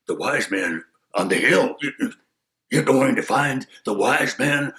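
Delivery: mocking wolf. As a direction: scoff like the wolf. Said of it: "And the wolf said".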